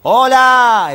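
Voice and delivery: calling out loud into a cave; shouting. Acted. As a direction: yell it high into the cavern. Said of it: "así gritaba el médico".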